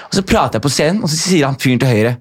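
usual speaking voice

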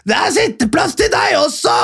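high shouted heckle; mock drunk shout. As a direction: yell it from the back of the hall. Drunk woman shouting in hall.

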